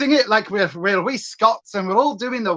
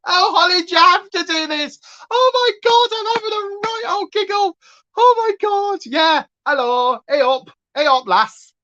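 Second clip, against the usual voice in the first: hammed-up Yorkshire lass; 10 semitones higher than usual. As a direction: play a cackling Yorkshire lass. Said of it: "Yorkshire character voice".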